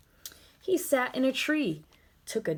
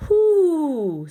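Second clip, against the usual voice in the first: higher, louder owl hoot; 7 semitones higher, 9 dB louder than usual. Acted. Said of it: "said the owl".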